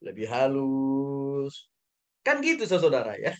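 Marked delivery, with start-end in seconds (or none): 0.0-1.7 slow soft gentle voice; demonstrating a gentle apology tone, slow; softer and gentler. Shown as a demonstration. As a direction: ease off and let the words come slowly and gently. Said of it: "suara yang lebih lembut, lebih halus".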